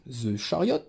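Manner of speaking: self-mocking English accent on a card name. Shown as a demonstration. Presenting a tarot card to viewers, in a mock English accent. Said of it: "avec mon accent magnifique English".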